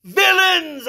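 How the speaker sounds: a shrieked cry of guilt; shrieked accusation. A narrator's reading. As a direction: scream it at them. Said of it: "I shrieked".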